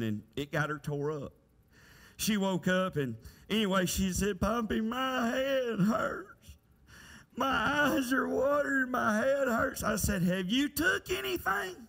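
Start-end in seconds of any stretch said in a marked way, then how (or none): 4.4-9.8 lightly voiced complaining daughter; slow, drawn-out mock whine of a child; ailing little girl. Daughter tells father her head hurts, lightly imitated complaint. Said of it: "she's got a headache and she's stuffy". 10.2-11.8 much higher, pointed fatherly question; mock exasperated question. Father asks ailing daughter about medicine, mildly exasperated.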